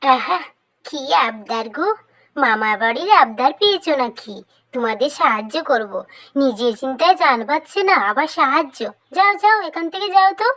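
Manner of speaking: fast, scoffing rabbit brushing them off; mocking rabbit. Rabbit mocks and shoos the begging ducklings, fast and scornful.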